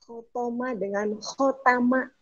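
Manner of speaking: Khotoma with to, then khotama with ta; contrasting Arabic words. Shown as a demonstration. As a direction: set the to against the ta. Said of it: "Beda to dengan ta". (Khotoma dan khotama dibedakan to dan ta)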